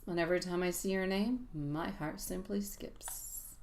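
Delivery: quiet, intimate reading of a message; hushed tender channeled message; soft love message reading. Acted. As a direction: read it softly like a love note.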